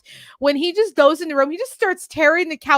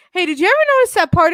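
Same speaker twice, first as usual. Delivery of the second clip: eager fast question; 5 semitones higher, 5 dB louder, much faster than usual. Retold or imitated. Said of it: "I'm just like".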